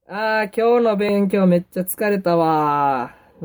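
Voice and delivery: drawn-out Kansai-dialect grumble to oneself; slow Kansai sigh-to-self, stretched final わー. Shown as a demonstration. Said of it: "僕関西弁、". (関西弁の独り言っぽく)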